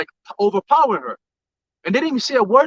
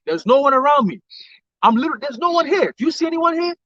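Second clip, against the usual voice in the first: retold protest; 5 semitones higher than usual. Retells woman protesting to police.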